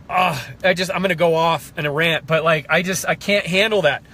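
real tears of passion breaking through; holding back tears. Real, not acted. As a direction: fight the tears as you speak. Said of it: "these are tears of passion".

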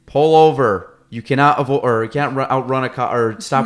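loud cop yelling over a megaphone; through a megaphone. Retold or imitated. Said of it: "or on the megaphone".

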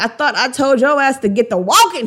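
loud, irritated mock order; imitating an angry man's dismissal; acted frustration. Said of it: "that rage and anger and frustration".

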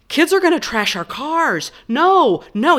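high, slow, rising alarm; frantic husband protesting; panicked protest. Retold or imitated. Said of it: "And he's like".

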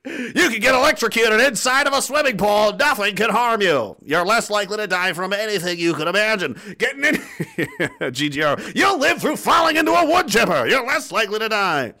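over-the-top high, loud promo shout; mock hype. Selling viewers absurd invincibility, mock hype. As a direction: stretch it out like an absurd miracle-product pitch.

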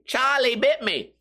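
put-on high, slow little boy whine; kid voice. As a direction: quote it like the crying kid in the video. Quotes the viral video line.

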